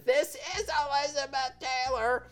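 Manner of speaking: mock-regal star voice; imitating Elizabeth Taylor. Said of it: "and she says".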